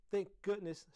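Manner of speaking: loud, high retort; shot back. A narrator's reading. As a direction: fire it back at a friend. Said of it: "Heidi shot back".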